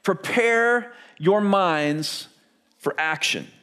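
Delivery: very slow, each word weighed; scripture read slowly for the congregation; slow emphatic reading. Shown as a demonstration. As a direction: read it out slowly, letting it land. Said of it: "look at what he says".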